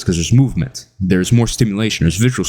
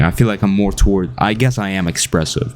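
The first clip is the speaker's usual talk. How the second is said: ordinary delivery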